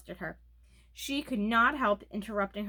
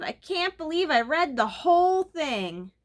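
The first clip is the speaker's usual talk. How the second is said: louder, higher, slow ad-man catchphrase; blurted TV line; 7 semitones higher, 7 dB louder than usual. A narrator's reading. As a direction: blurt out the pizza commercial line. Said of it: "she blurted out".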